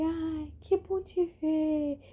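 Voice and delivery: high, slow, delighted imitation; happy old neighbor. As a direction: draw out his joy at seeing her.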